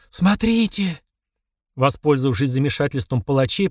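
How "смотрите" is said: high, drawn-out exclamation; startled cry, pitch up. A narrator's reading. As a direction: call out in astonishment over a crowd. Crowd cries out in shock.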